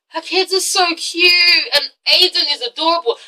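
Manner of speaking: gushing. Real, not acted. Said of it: "gushing over the kids".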